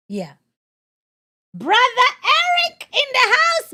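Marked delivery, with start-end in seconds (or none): 1.5-3.7 high, slow, drawn-out welcome; excited greeting. Real, not acted. Host greets a viewer, high and drawn out. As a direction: call out a chat member's name with delight.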